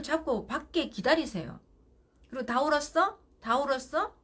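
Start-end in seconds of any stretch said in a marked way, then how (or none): 2.5-4.1 higher and louder, easing down each time; bright checking in. Shown as a demonstration. Mother at the door asking the crying child. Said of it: "물어봐요".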